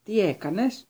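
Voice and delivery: high, furious question; accusing outburst; howled demand. A narrator's reading. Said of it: "ούρλιαξε ο Σνέιπ".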